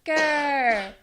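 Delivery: feeble mock cheerleader growl; weak roar. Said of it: "the weakest roar I've ever seen".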